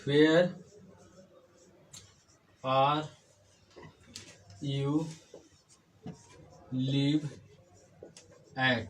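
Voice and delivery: each word isolated by a long pause; word-by-word dictation. Shown as a demonstration. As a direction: speak at the pace of writing on a board. Dictates question while writing it.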